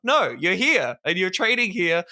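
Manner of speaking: real outrage; angry rant. Real, not acted. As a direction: still ranting at corporations, fuming. Furious rant at corporations.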